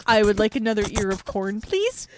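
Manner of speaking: imagined McCoy order. Pretend. McCoy asking the replicator for corn, low deadpan. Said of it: "him, like, at the replicator being like".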